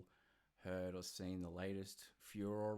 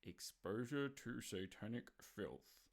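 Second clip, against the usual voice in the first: sarcastic air quotes; 2 semitones higher than usual. Retold or imitated. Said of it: "and I'm air quoting here heavily".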